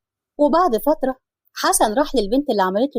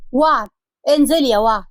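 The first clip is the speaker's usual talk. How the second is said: calling out loud; 3 dB louder than usual. Acted. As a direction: call her name up the stairs. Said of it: "نده عليها بصوت عالي".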